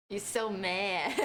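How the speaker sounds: laughing teasing. Retold or imitated. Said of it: "Very angry".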